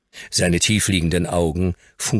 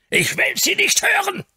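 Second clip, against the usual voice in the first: very high furious shout; panting with rage; 5 dB louder than usual. A narrator's reading. Gouty old earl shouting breathlessly in rage. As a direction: gasp it out, breathless with fury. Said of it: "keuchte der Earl, ganz außer Atem vor Zorn".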